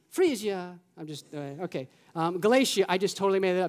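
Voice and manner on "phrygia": Italian accent. Shown as a demonstration. Joking to the church that this is Italian, Italian accent. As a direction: say "Phrygia" as if in Italian. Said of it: "or you say in Italian".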